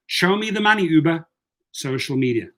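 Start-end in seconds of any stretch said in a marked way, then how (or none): 0.1-1.2 higher "Show me the money" repeated, aimed at Uber; mock demand. Driver repeating the taunt at Uber, high and punchy. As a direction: throw the line at the company.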